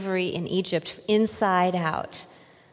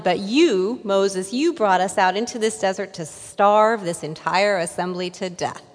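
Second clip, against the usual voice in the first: loud, grumbling Israelites, a touch hammed-up; whiny complaint; 6 dB louder than usual. Hungry Israelites grumble at Moses, loud, petulant complaint. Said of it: "this is how they say it".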